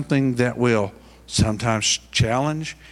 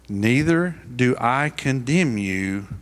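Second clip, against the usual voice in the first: gentle; slower than usual. Retold or imitated. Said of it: "he very gently said".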